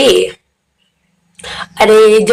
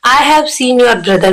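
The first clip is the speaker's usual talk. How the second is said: slow dictation; much slower than usual. Shown as a demonstration. Teacher dictates example sentence.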